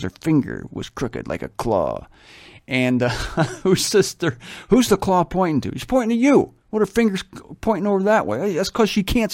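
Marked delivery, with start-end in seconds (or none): 3.6-5.8 higher, mock classroom chatter; confused students. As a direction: act out the puzzled kids. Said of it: "we used to call her the Claw".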